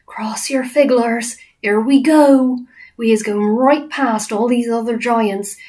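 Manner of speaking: urgent giant with rustic lilt; friendly giant, tense. Acted. BFG guiding Sophie past giants, tense giant voice.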